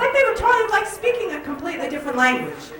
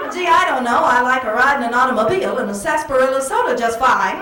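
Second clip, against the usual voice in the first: put-on 1940s movie girl. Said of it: "you'd say something like".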